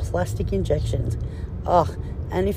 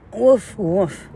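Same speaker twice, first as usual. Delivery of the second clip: dog barking; 3 semitones higher, 4 dB louder than usual. Pretend. Barks after dog comparison.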